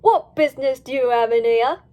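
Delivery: loud, stern suspicious question. Acted. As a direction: press them with suspicion. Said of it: "asked Pearl suspiciously".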